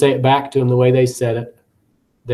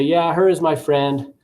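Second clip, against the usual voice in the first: student voice with error; 2 semitones higher, slower than usual. Shown as a demonstration. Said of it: "Kid might say".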